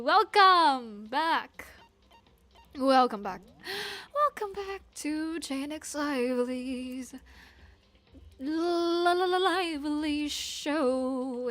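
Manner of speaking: drawn-out announcer welcome; show host intro. Real, not acted. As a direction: stretch out the show's name playfully. Streamer performs the show intro.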